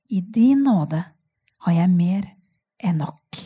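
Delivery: slow, solemn reading of a prayer poem; poem recital. Acted. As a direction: let each line of the prayer settle, slowly. Reads a short poem aloud. (langsom, høytidelig diktlesning)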